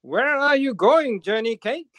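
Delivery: high, loud sharp call. Acted. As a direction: call out sharply without getting up. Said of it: "called out in a sharp voice".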